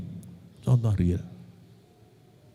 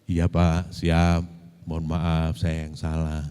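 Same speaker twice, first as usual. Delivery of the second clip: softer, lower, submissive yes-sir; humble apology; 7 semitones lower, 8 dB quieter, slower than usual. Retold or imitated. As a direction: quietly give in and apologise. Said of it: "lalu saya merendah".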